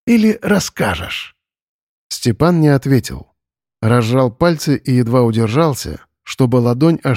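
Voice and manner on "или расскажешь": taunting question. Acted. Veiled threat posed as question.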